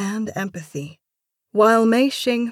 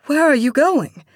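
high, loud alarmed question; calling after her; 8 semitones higher, 8 dB louder than usual. A narrator's reading. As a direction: call out after someone leaving. Calling after someone storming out.

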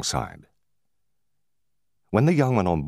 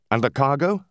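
eager, higher and quicker question; 8 semitones higher than usual. A narrator's reading. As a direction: ask about the cargo with sudden eagerness. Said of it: "inquired the owner eagerly".

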